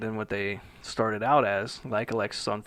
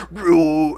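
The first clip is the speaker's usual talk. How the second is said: short loud imitated metal growl; mock metal scream; 5 semitones higher, 9 dB louder than usual. Guy asked for his best scream, mock metal growl. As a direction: bark out a mock deep scream. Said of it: "like, just super deep".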